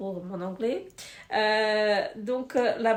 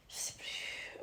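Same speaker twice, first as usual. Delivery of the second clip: whisper; 15 dB quieter, slower than usual. Real, not acted. Reading tiny label, unsure.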